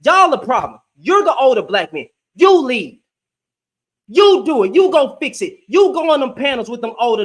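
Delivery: loud, hard-hitting blame; angry rant. Real, not acted. Angry rant at older men.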